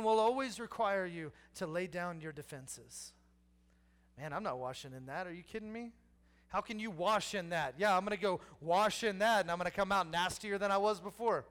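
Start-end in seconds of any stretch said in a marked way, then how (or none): 4.2-7.8 scoffing refusal. Acted. Naaman refuses.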